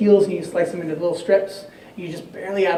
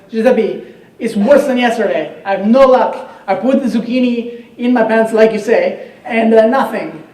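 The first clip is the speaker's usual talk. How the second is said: higher and louder, a complaining cousin; whiny Luigi; 5 semitones higher, 10 dB louder than usual. Acted. Luigi whining to cousin Giuseppe about his bad luck, higher and louder. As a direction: moan that nothing worked.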